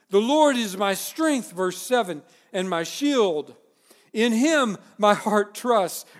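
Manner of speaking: slow, loud, declarative reading; emphatic scripture reading. Acted. Preacher reading psalm to congregation, emphatic. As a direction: read it like a battle cry.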